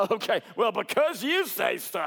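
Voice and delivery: sarcastic fisherman humouring the preacher. Shown as a demonstration. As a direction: roll your eyes as you say it. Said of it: "he could say very sarcastic".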